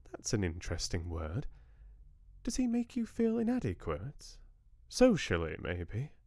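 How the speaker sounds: an elegant Southern lady catching up with her granddaughters; lightly voiced Southern grandmother. Georgia probes Bella.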